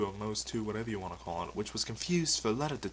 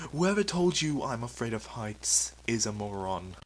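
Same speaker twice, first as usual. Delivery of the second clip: easily upset. Acted. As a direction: protest like an offended superhero. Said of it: "you're just a tad easily upset".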